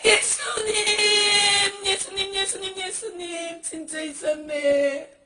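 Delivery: slow, high, stretched pleading cries; drawn-out anguished calling. Acted. Sinner in hell calling to Jesus, slow and wailing. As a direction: call out, dragging each word in agony.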